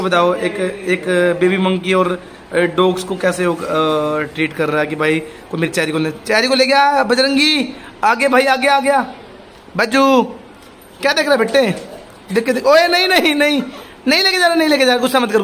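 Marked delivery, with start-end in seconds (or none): 6.1-15.4 high pet-talk voice. Real, not acted. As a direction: coax the little monkey in a high sing-song. Coaxing pet monkey not to take dog. (बंदर से ऊँची, मनाती हुई आवाज़)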